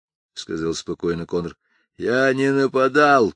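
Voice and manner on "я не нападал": hoarse, breathless protest; wheezing. Acted. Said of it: "прохрипел Джефф".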